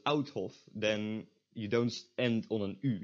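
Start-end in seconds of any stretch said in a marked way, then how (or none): 0.1-0.5 "Outhof" opening like English "out"; mispronounced Dutch. Shown as a demonstration. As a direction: demonstrate the wrong "ou" vowel in "Outhof". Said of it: "if you pronounce as".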